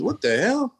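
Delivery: jolted at seeing a film actor; recognizing the actor from Colors, high startled rise; startled disbelief. Retold or imitated.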